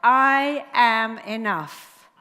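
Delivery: slow, loud and firm, each word landed; loud slow affirmation. Shown as a demonstration. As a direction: declare it slowly to the room. Affirmation call and repeat.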